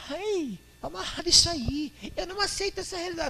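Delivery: very high, fast, scandalized squeal; shocked churchgoer. Acted. Offended believer rebuking the preacher, high and shrill. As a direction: recoil in pious horror.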